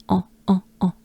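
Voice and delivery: "en" in short separate nasal bursts; French nasal vowel. Shown as a demonstration. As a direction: drill the French "en" briefly. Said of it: "We're looking for en".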